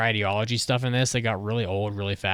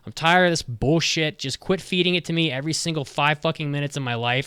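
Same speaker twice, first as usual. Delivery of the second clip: higher, exasperated rant; fed-up rant; 6 semitones higher than usual. Real, not acted. Reviewer ranting to co-host, higher exasperated tone. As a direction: vent your frustration, pitched up. Ranting about politics in anime.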